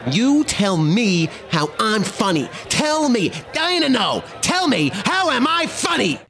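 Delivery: wiseguy demand climbing from slow to high-pitched; Joe Pesci. Acted. Wiseguy demanding an answer from his friend, mounting Pesci-style menace. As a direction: build to an agitated Jersey tough-guy challenge. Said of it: "the speaker's second language is Joe Pesci".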